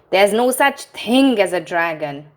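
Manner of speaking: a firm, flat denial from mother; mother insists the dragon is not real, firmly. Acted. Mother insisting to Billy, firmly. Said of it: "said Mother firmly".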